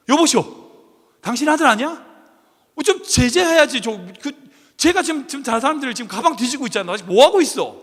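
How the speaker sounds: a mild scolding from a fed-up passenger; angry stranger. Retold or imitated. Stranger on the subway scolds a negligent father, mildly angry. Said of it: "막 화를 내기 시작했어요".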